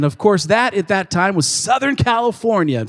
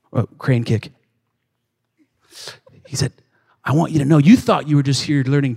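wise old teacher, lightly voiced; 6 semitones lower than usual. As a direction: hand down the lesson gently. Miyagi's wise lesson, low.

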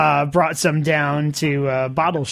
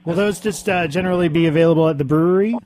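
repeated louder and quicker; 4 dB louder than usual. Real, not acted. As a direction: say it again louder for a bad line. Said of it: "Say that again?".

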